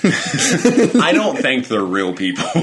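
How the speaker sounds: laughing slowly through the words. Real, not acted. Friend laughing while joking to her co-host. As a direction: giggle it out, slowly. Joking that the Harry Potter cast doesn't count.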